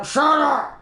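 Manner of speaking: high, sudden mock-angry yell; imitated irritated outburst; annoyed brute. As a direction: cut in like a fed-up cartoon brute. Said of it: "brutes got annoyed with it".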